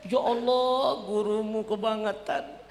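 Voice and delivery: high indignant mother; mock outrage on his behalf. Mother outraged at the teacher, high.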